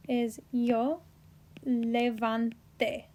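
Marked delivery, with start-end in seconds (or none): 1.6-3.0 slow "levanté", stressed on the last syllable; final-syllable stress. Shown as a demonstration. Teacher showing a Spanish verb form, "levanté" slowly with final stress. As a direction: stretch out "levanté" and land on the final é. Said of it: "E with an accent".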